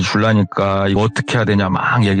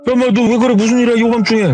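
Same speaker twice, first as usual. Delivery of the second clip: startled father; 11 semitones higher than usual. Retold or imitated.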